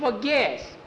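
very high urging; high-pitched, put-on insistence; Juby character voice. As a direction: prod in a squeaky little voice. Juby urges Jackie in character.

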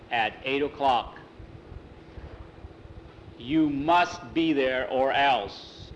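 slow, weighty proclamation; official notice. A narrator's reading. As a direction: read it out like a stern summons. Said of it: "there was a notice".

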